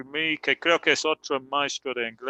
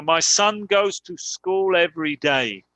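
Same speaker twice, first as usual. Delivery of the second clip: slow example sentence. Shown as a demonstration. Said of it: "Por ejemplo".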